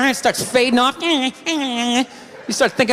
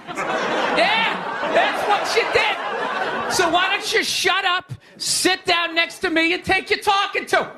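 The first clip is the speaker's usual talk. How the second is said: lecturing like a toxic male, raised pitch; mock scold; 5 semitones higher, slower than usual. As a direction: scold them like a smug lecturer. Mock scolding white women.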